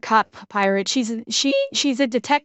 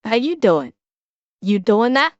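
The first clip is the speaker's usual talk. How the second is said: New Yorker accent; 2 semitones lower than usual. Shown as a demonstration. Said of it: "Can I pull off the New York?".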